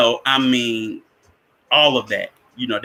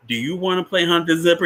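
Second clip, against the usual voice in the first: teasing, higher question rising at the end; higher coaxing voice; 6 semitones higher than usual. Retold or imitated. Counselor coaxing Bernard, higher and teasing. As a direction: lure the boy into the game.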